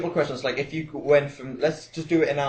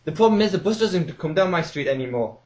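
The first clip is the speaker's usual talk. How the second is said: put-on higher, louder fretting old lady; elderly woman caller; 3 semitones higher, 4 dB louder than usual. Old caller complaining to the radio DJ, fretting and loud. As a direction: whine about the bus like a pensioner. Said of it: "And then".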